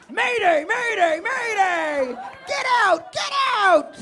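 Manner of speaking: high screaming alarm call; panicked scream. Acted. Panicked boyfriend screams mayday mid argument. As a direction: scream for rescue like a sinking pilot.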